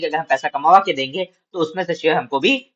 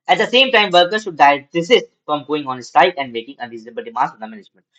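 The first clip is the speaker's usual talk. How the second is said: slow, measured reading aloud to students; slow classroom read-aloud; slow textbook reading; 3 dB louder, much slower than usual. Acted. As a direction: read each phrase out deliberately for the class.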